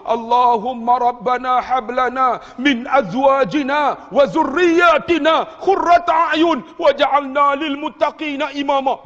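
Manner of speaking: slow, high pleading Arabic prayer; imitated tearful recitation. Preacher as father praying in prostration, tearful slow recitation. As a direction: stretch the prayer out imploringly. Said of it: "dia ulang sambil menangis".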